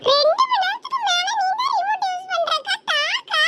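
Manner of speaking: high, pestering little-sister voice; pleading child. Acted. Younger girl complains the sister has hogged the remote, high pleading.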